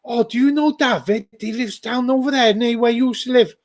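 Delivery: high, chirpy imitation of a clueless asker; nosy questioner. Imitating people asking about someone living nearby, high and naive. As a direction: pitch it up to mimic naive questions. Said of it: "I get people who ask me".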